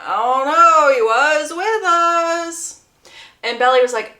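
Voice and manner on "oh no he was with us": put-on slow, loose, louder drunk drawl; tipsy Jeremiah. Drunk Jeremiah telling Belly Conrad was there, slurred. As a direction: lightly play a tipsy groom.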